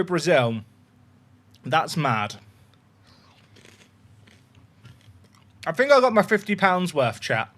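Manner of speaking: talking while crunching chips. Real, not acted. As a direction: mouth full of crunchy chips. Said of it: "the chips are loud".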